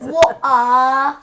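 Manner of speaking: mock British accent. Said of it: "all you know how to say in a British accent".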